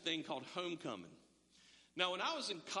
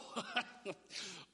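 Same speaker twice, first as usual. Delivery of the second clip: mock laugh; 4 dB quieter than usual. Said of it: "and she laughed".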